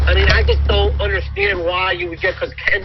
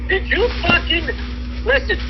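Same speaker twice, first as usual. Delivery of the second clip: imitating a scolding; 7 semitones higher than usual. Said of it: "I'm gonna say".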